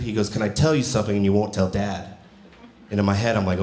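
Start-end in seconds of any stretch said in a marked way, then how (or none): 0.3-2.1 low, softened, solemn imitation of a child; all serious. Six-year-old nephew asking uncle to keep a secret, imitated all serious. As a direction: confide a secret gravely, as a kid would. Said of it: "He walks in all serious".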